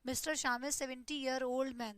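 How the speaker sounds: slow, clearly spaced model sentence; careful classroom dictation. Shown as a demonstration. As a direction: read it slowly for students to copy. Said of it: "मैंने यहाँ पे बोला".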